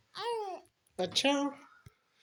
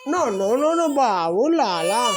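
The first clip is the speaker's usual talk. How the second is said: pleading no; 6 dB louder, slower than usual. Real, not acted. Soothing a crying child.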